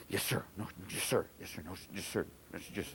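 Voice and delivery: quiet, low, meek yes sirs; timid freshman. Retold or imitated. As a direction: mumble them like a nervous freshman. Timid freshman answering coach.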